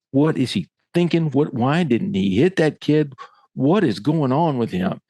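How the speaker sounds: retold bafflement, pitch lifted on each question; upset coach. Coach venting to his assistant about the player, upset and baffled. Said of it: "I'm too upset".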